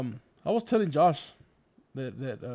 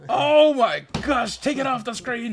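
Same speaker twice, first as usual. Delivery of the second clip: surprised; 8 semitones higher, 9 dB louder, slower than usual. Real, not acted. Embarrassed by old photo on screen.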